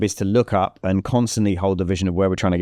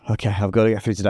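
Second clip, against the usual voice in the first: weary resolve; faster than usual. Pretend. Voicing a reluctant morning.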